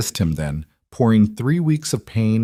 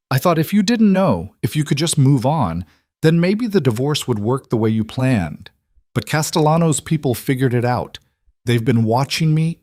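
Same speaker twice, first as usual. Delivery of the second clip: higher, urgent rush; anxious; 5 semitones higher than usual. Acted. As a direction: spill it out nervously. Lila's anxious confession.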